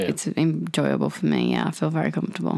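mellow, tired voice; relaxed and drowsy, unhurried; lax voice. Real, not acted. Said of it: "You sound so tired".

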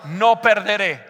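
firm declaration in measured phrases; strong declaring voice. Shown as a demonstration. Preacher leading congregation to repeat after him, strong voice. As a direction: lead the crowd in a forceful declaration. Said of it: "Di con voz fuerte".

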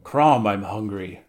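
slow, loud gruff grunt. Acted. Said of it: "grunted the Cimmerian".

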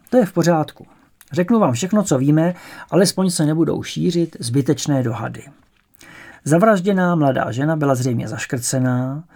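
loud, earnest official explanation; policeman's briefing. Acted. Sergeant Janda explains the murder to pupils, loud and earnest. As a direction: lay out the facts to the pupils.

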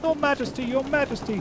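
very high, urgent mouse voice; a tiny knight calling his king; outraged Reepicheep. Acted. Reepicheep appeals to the king, high and outraged.

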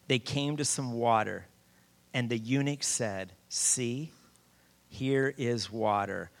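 measured reading with deliberate pauses; scripture reading. Acted. Preacher reading Philip and the eunuch, measured delivery. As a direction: read the verse out to a congregation. Reads the Bible passage aloud.

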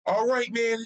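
high, drawn-out mock cheer; slow-motion high-pitched egging on; imitating hype man. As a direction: stretch it out high like an over-eager hype man. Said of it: "I hear him right before I start singing it go".

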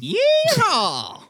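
high, drawn-out yeehaw; cowboy whoop. Acted. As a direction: let out a mock cowboy holler. Player mimics club member with whoop.

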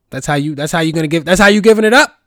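high, loud, fast hype reaction; loud mock-excited approval; mock impressed. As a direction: cheer them on in a put-on voice.

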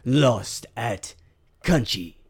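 slow, weighty movie-trailer read; slow dramatic narrator for the card shop ad; dramatic trailer narration. Acted. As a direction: pull them into a nostalgic flashback. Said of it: "Do Country Cards advertisement".

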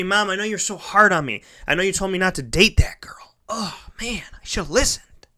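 high, rueful confession to Mom; acted regret. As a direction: plead a little, owning up to Mom.

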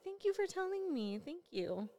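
soft, tender thanks; soft praise. Retold or imitated. Mother softly thanking her son for telling. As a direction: praise the child gently.

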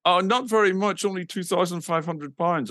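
lightly put-on Dutch accent. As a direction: play the Dutch promoter naming a fee. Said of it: "this guy with a Dutch accent".

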